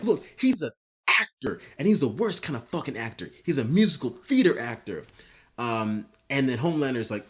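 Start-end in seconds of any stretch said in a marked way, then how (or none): 0.0-5.0 snitching whine. Retold or imitated. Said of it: "the Deep is just like".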